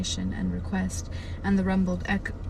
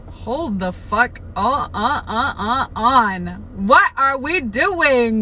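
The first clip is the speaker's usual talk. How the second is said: loud, drawn-out outburst, rising higher at the end; loud exasperated disbelief; 3 semitones higher, 8 dB louder, much slower than usual. Real, not acted. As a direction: halt everything in loud, stretched-out protest. Exasperated reaction to racy book.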